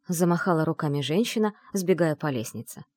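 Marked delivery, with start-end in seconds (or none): none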